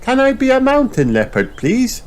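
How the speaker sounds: very high eager request; squeaky cartoon plea; Miss Rabbit voice. A narrator's reading. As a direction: ask hopefully like a child. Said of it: "says Miss Rabbit".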